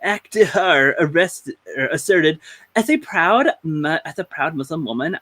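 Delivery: mild put-on announcer read. Podcast host reading the statement, light announcer voice. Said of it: "Let's do the announcer voice".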